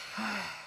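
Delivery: a short weary sigh out through the mouth; tired sigh. Acted. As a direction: let a tired sigh go before speaking. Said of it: "Daddy sighs".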